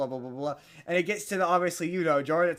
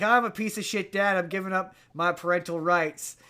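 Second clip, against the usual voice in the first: lightly imitated Southern dad giving up his rights; mild southern accent. Retelling the movie dad in court, in a light Southern accent. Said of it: "I don't know why I keep giving him a southern accent".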